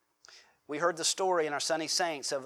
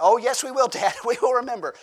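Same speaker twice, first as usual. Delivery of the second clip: louder, higher laughing protest; griping sons; 5 semitones higher, 6 dB louder than usual. Retold or imitated. Sons on a tough hike protest to dad, loud and laughing. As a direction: sons insist loudly they'll remember, laughing. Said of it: "I said".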